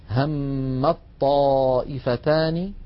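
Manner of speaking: slow drawn-out demonstration reading; الطائفتان said hemmaṭṭā'ifatān, ت merged into the ط; slow recitation demo. Shown as a demonstration. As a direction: stretch the phrase slowly, letter by letter. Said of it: "لاحظوا أقول".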